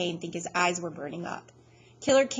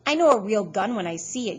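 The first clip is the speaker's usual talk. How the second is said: loud, scornful sneer; 7 dB louder than usual. A narrator's reading. Killer Kane mocking Freak's gun, loud and scornful. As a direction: sneer it at the little kid.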